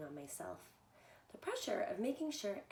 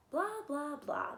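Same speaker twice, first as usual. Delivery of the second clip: dismissive; 4 semitones higher, 3 dB louder, slower than usual. Acted. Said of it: "they replied".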